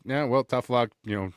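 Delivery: hammed-up British accent, chipper and loud. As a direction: put on a jolly old English toff voice. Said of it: "you decided to do a British accent".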